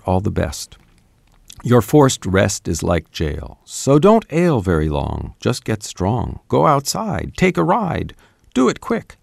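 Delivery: jaunty rhymed verse read aloud with playful lilt; poem reading. Acted. Translator reading his first English version to the hosts, jaunty recital. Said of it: "you want me to read my first translation".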